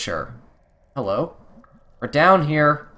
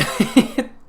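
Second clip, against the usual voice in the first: eerie laugh; 12 semitones higher, 4 dB louder than usual. Acted. Dark voice mocking in dream.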